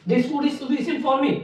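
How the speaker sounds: slow, even reading; slow dictation. Shown as a demonstration. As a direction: read it slowly for the notebook. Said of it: "slow dictation demo". (धीरे-धीरे पढ़कर लिखवाना)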